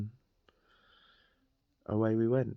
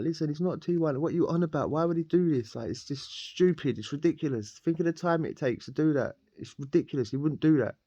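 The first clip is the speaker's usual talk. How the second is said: raised, higher voice defending the dealer; heated drunk argument; 6 semitones higher than usual. Retold or imitated. To his cellmate, arguing heatedly in his mate's defence.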